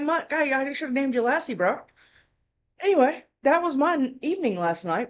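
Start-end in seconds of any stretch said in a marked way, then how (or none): 0.0-1.8 high, bright praise to the dog; high excited praise. Retold or imitated. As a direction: cheer the dog on.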